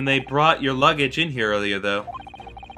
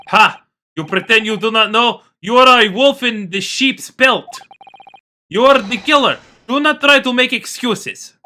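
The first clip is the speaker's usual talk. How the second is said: angry accusation; 7 semitones higher, 5 dB louder than usual. Acted. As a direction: hurl the blame at him. Accuser shouts at defendant.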